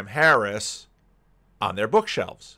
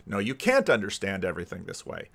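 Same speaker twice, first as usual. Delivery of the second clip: lower, subdued contradiction; retold rebuttal; 4 semitones lower, 4 dB quieter than usual. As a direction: quietly knock down the overconfident claim. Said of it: "basically what's been happened".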